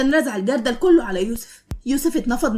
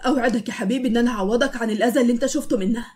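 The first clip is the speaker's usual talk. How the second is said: tender. Acted. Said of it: "وبياخده في حضنه".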